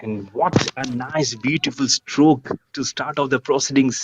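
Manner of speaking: lively live play-by-play; cricket commentator. Real, not acted. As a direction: call the match like on TV.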